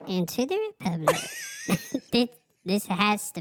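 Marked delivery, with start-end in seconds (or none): 0.0-1.2 christmas elf. Acted. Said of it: "You need to do the elf voice".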